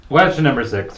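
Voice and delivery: booming quiz-host announcement; game show host. Pretend. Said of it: "Sorry, I had to".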